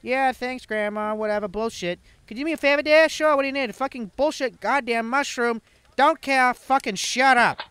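high mock voice. Voicing grandma dialogue, high.

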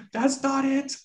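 high, indignant read-aloud outburst; a mild shout, dragging out the accusation; angry shout. A narrator's reading. Master accusing his butler of torture, mildly acted angry shout. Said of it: "I shouted, shaking with anger".

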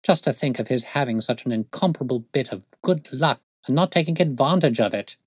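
mildly incredulous scorn; bitter exasperation. Acted. Detective rues constable's wasted luck, mildly bitter exasperation. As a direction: complain with a touch of bitterness. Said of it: "Holmes said bitterly".

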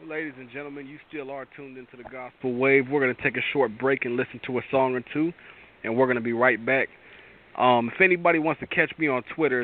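easygoing radio announcer sending to a break; host the show into a song break. Acted.

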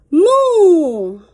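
loud mock moo; cow moo. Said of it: "All the wonderful sounds".

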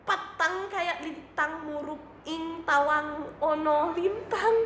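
giggling while reading Javanese; laughing through it. Shown as a demonstration. Streamer retries the Javanese line, laughing. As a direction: try the line again but crack up. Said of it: "Is it correct?".

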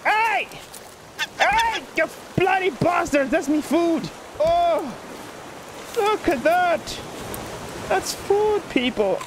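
high, outraged Irish shouting; hammed-up high Irish holler; Irish accent. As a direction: yell like an Irishman robbed of his food. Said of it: "wanna speak like this".

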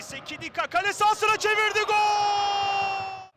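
building goal scream. Real, not acted. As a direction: race into the goal shout. Cross then goal called.

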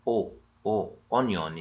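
opening vowel of "أونيون" said alone, then the whole word; isolated first sound. Shown as a demonstration. Teacher showing students the hamza that starts onion, sounded out. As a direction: sound out the initial "أو" separately before saying "أونيون". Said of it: "برضو سمعت صوت ال".

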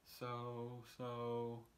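slow, stretched out; drawling cat. Acted. Cat teases the fish slowly, a hint of drawl. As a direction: spin it out slowly. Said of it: "And so said the cat".

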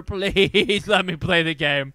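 loud, drawn-out exasperated plea; mock pleading. Streamer begging the game to start, mock pleading. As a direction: stretch out the begging, hammed up.

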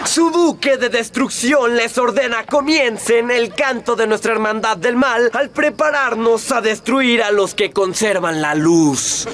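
mustache twirling villain. Acted. Villain commands his brotherhood.

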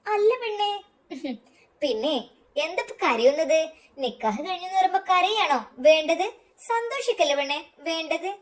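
playful mock scolding with a laugh; teasing. Friend teasing the bride for crying, playful. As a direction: tease the crying bride lightly. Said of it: "Shamna അവളെ കളിയാക്കി".

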